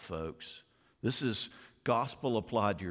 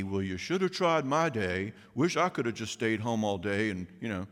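unloving retort. Retold or imitated. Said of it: "The unloving thing to say would be".

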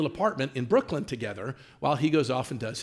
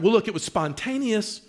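higher-pitched imitation of eager justifying; enthusiastic defense; 5 semitones higher than usual. Wife defending her quick marriage to the caller, enthusiastic. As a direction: launch brightly into defending yourself. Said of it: "with this enthusiasm".

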